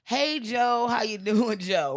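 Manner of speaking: high crowd-style call-out; congregation greeting. Acted. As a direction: greet him like a whole congregation. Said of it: "the whole congregation goes".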